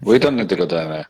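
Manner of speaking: badly faked German accent, drifting elsewhere; muddled German accent. Player voicing a character who thinks he'll be fine, muddled German accent. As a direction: attempt a German accent and miss. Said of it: "this guy also has a German accent".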